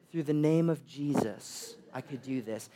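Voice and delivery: hammed-up solemn proclamation; mock-solemn hero. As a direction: intone it humbly, falling away at the end. Imagined miracle worker answers her.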